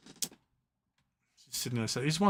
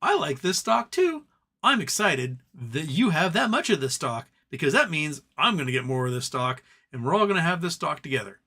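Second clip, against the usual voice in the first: mock excited fan. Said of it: "everyone going".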